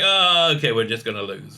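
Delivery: sinking, defeated mock sigh of words; mock resignation. Imitating a side that has given up, mock resigned. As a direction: act like you've given up, dropping low. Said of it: "they just kind of given up".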